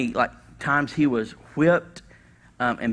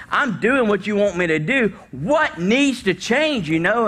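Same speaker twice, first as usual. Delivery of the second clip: higher and louder, stretched out near the end; exasperated pleading prayer; 5 semitones higher, 3 dB louder than usual. Retold or imitated. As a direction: plead with God, half laughing.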